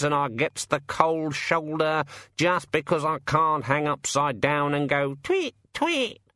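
a put-upon bird griping; grumbling raven. Acted. Raven complaining about the bird table to the rat, aggrieved.

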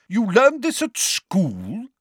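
slow, high, booming question. A narrator's reading. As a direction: draw it out in a booming voice. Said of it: "boomed Madam Bones".

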